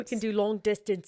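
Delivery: lightly Australian, repeated for a laugh; light Australian accent. Retold or imitated. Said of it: "Why are you so good at that accent".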